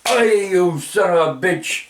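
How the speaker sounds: slow, drawn-out cursing, pitched high; high mock-angry holler; retold angry yell. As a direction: re-enact hollering an insult after someone, stretching the words. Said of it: "like that to him".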